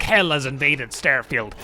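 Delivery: a hint of doom-laden announcer, low; mock prophecy of doom; mock-dramatic proclamation. Mock dramatic game-plot quote.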